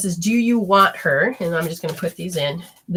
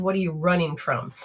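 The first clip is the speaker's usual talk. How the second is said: quiet question; 3 semitones lower, 6 dB quieter than usual. Retold or imitated. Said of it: "And they said".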